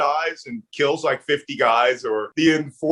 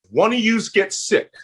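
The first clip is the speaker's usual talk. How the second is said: Philly accent kicking in, higher pitch; 5 semitones higher than usual. Real, not acted. Warning an unmarried couple, Philly accent. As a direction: let a Philly accent slip out on "yous". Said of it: "That's my Philly accent coming".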